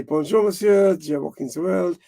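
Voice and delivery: a light French accent on a mock radio call; lightly put-on French accent, breezy and polite. Calling the lock keeper on the radio, lightly French-accented. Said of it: "'cause you do it with the French accent".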